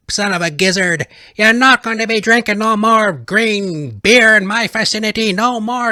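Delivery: high, loud hammed-up tirade; mock angry rant. Banning green beer drinkers, hammed-up angry rant. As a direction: blow up at imagined drunks, hammed-up.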